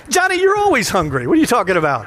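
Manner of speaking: lightly voiced wife scolding her always-hungry husband; mock scolding wife. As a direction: tease Johnny like a fed-up spouse.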